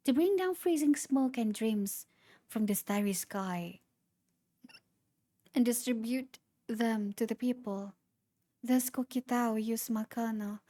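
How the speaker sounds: reading through hiccups; hiccuping between words. Real, not acted. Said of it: "Sorry for the hiccups".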